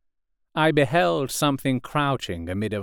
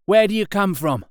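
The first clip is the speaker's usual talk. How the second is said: lightly voiced wary soldier, higher; a hint of a suspicious stranger calling out; mildly hoarse challenge; 10 semitones higher, 4 dB louder than usual. A narrator's reading. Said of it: "His voice was hoarse".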